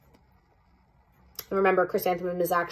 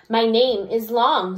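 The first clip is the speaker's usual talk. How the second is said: calm; 3 dB louder, slower than usual. Acted. Teacher calmly stands up.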